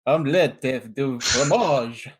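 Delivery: put-on slow, stereotypical Transylvanian vampire accent on "Omelette du fromage". Player gives "Omelette du fromage" a slow vampire accent on request. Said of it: "stereotypical vampire accent".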